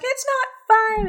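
high, loud, drawn-out mock wail; retold panicked protest. Scared girl arguing with her dad, imitated panic. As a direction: imitate a frantic daughter protesting, slow and high.

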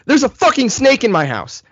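high-pitched, voiced in capital letters; acted-out frantic text; all-caps text. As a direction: read out an all-caps panicked message. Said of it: "all caps".

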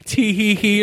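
lightly mimicked giddy teenager; adolescent giggle. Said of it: "revert to, like, adolescent Joe".

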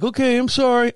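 put-on apologetic child. Scolded kid apologizing to neighbor, high childlike voice.

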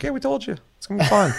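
high, smug told-you-so; smug company voice. Retold or imitated. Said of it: "they're like".

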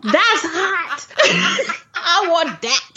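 real laughter through the words; laughing hard. Real, not acted. Podcast host joking with co-host, laughing hard. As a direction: gasp it out while laughing.

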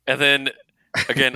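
usual speaking voice

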